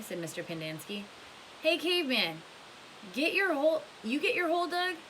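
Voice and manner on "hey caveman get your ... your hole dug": put-on high, loud teasing kid; teasing boy voice. Magnet teasing Stanley back at the tent, high and loud. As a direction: rib the new boy from up high.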